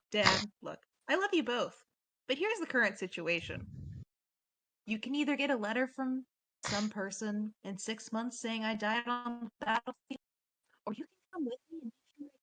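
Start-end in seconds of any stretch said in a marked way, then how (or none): 4.8-12.3 choppy broken-up mic audio; scrambled voice. Real, not acted. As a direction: voice cutting in and out. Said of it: "Your mic is cutting out horribly".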